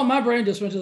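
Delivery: usual speaking voice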